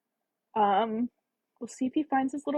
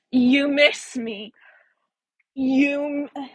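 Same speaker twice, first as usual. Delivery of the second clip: sarcastic echo; 3 semitones higher, 3 dB louder, much slower than usual. Retold or imitated. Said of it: "her sarcastic".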